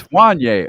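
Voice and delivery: "Wanye" said WAHN-yay; Wanye like a rapper's name. Shown as a demonstration. Confirming the corrected name, "Wanye" rhyming with a rapper's name. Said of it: "It's pronounced like the rapper Kanye".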